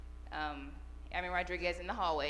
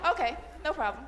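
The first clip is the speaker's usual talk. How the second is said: laughing through the words, pitched up and louder; amused laugh as she reads the request; 8 semitones higher, 8 dB louder than usual. Real, not acted. Sergeant laughing at a young airman's shy email request.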